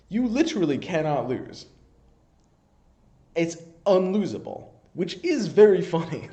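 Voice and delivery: cracking up at how broken it is; gleeful, giggly disbelief; laughing excitement. Real, not acted. Gleeful about an unlosable combo.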